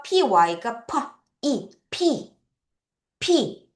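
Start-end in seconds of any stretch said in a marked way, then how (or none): 3.2-3.7 피 with lips pressed, then popped open; P with lips released. Shown as a demonstration. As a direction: close the lips and release 피 cleanly. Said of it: "입술을 붙여서 떼야 돼".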